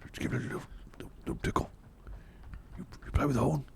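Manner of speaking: hoarse, hushed pleading; whispering rhino. Acted. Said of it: "Why are you whispering?".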